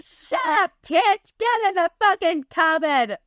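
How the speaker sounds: hammed-up bossy shout; mock yell. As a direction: snap at the orphans like a nasty matron. Acting Miss Hannigan shoving kids.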